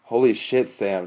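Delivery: amused outburst, starting high and loud; tickled, exclaiming; said laughing. A narrator's reading. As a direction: react with laughing disbelief to a friend's jab. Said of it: "Sean said, laughing".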